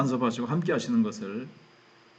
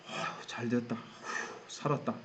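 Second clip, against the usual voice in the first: soft sighs of relief, half-whispered; secret relief; 10 dB quieter than usual. Acted. David privately thanking his luck at being sent home, relieved sighs. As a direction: sigh it out under the breath, acted. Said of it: "속마음은 이러면서".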